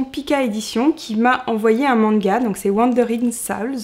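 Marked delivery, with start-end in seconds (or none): 2.7-3.8 "Wandering Souls" read with a French accent, "Souls" as /sal/; English title said the French way. Real, not acted. Booktuber naming a manga title, "Wandering Souls" in French-accented English. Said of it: "excusez mon accent anglais".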